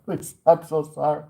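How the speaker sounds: apologizing to the angry customer, mock pleading; mock begging. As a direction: beg forgiveness theatrically.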